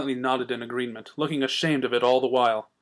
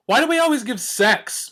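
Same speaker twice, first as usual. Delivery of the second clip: bubbly high pony question; lightly voiced giddy mare; Pinkie's voice; 9 semitones higher, 4 dB louder than usual. A narrator's reading. Pinkie asking a silly question, bubbly and high.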